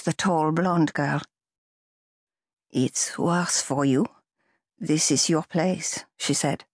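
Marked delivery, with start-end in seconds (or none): 2.7-6.0 gentle. Acted. Girl comforting Andreas.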